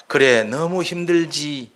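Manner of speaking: very slow, embracing reassurance; Lord's comfort. Retold or imitated. The Lord answering a weeping believer, slow and tender. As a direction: hold them close with each word. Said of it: "이게 품어주는 겁니다".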